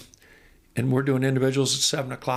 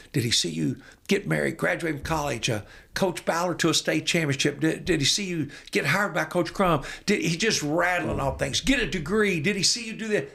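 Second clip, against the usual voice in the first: rattling off questions; 5 semitones higher than usual. Retold or imitated. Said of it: "reeling things off, hundred miles an hour".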